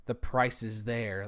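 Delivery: slow, condescending quote of the clerk; mock the clerk as talking down to an idiot; mimicked short reply. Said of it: "You were short with me".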